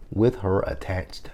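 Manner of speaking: soft whispered punchline; whispered aside. Pretend. Wishing Melba harm, sly whisper. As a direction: drop to a whisper for the kicker.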